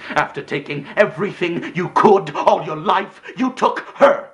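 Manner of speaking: high, loud outburst building to the end; anguished rage, each key word punched; furious accusation. Acted. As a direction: hurl the blame at your brother. Acted accusation over stolen woman.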